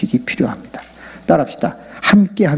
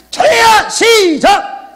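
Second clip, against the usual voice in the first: high, loud, drawn-out rallying cry; demonstrated prayer shout; 5 dB louder, much slower than usual. Shown as a demonstration. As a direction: lead the crowd in a full-voiced shout. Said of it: "자, 준비!".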